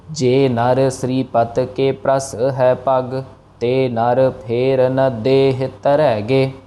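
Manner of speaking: slow, measured chanting; slow verse recitation. Shown as a demonstration. Teacher reciting the verse slowly for students. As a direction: recite each word slowly and evenly. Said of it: "teacher recites the verse".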